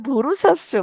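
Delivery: a light Barishal village twang; Barishal dialect. Retold or imitated. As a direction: mimic Barishal villagers quickly. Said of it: "বরিশালের ভাষায় বলে".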